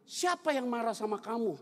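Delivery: mildly indignant imitated question; acted wifely questioning. Wife questioning her tearful husband, mock indignant. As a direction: play a concerned wife demanding an answer.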